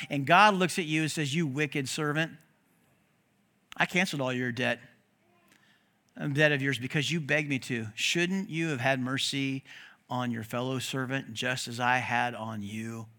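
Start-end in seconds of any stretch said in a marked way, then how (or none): 1.3-13.1 low, soft, deliberate rebuke; quiet stern judgment. Acted. God rebuking the wicked servant, low and stern. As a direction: pronounce judgment gravely, without raising your voice.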